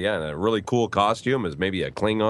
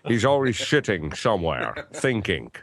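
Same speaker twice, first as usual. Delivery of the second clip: bad Sean Connery. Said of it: "Sorry, that was terrible".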